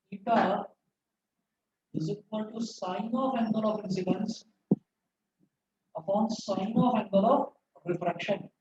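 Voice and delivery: slow, measured formula reading; classroom dictation. Real, not acted. Teacher giving students the formula, slow dictation. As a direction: read it out slowly for note-taking.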